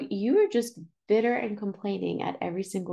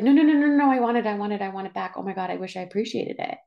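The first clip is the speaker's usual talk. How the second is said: panicked plea; 3 dB louder, faster than usual. Retold or imitated. Panicked plea after imagined loss.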